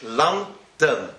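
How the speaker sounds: "London" as LUN-den; English pronunciation. Shown as a demonstration. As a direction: open short first vowel in "London", light second syllable. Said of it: "how do you say London in English".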